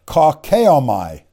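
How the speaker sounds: kakeomai sounded out slowly; deliberate, drawn-out attempt at kakeomai; careful pronunciation. Shown as a demonstration. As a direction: take kakeomai slowly and carefully, aiming to get it right. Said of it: "I try to pronounce this correctly".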